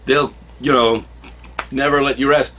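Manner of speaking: lightly voiced anxious objection; worried protest. Warning her Granny Goodness will find out, mildly worried high voice. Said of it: "he's like".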